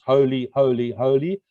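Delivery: each "holy" set apart and weighted; emphatic repetition. Real, not acted. Preacher quoting angelic beings on God, emphasizing "holy, holy, holy". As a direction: stress every "holy" in "holy, holy, holy". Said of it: "I'm emphasizing that".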